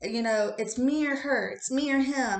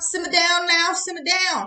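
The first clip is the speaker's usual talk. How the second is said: dove-like voice, high and raised; 7 semitones higher, 5 dB louder than usual. Reading tarot cards, speaking as the doves on a card: voicing the doves. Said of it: "The doves are over here being like".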